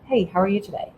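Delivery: casual, even small talk; light and unemotional; elevator tone of voice. Shown as a demonstration. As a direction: greet a stranger in the elevator, neutrally. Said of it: "That's the tone of voice I want you to use".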